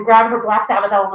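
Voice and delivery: ordinary delivery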